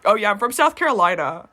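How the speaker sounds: mostly Midwestern with a touch of Southern; lightly imitated Midwestern-Southern accent; slight Southern-Midwestern accent. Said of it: "slight twinge of Southern, but, like, mostly Midwestern accent".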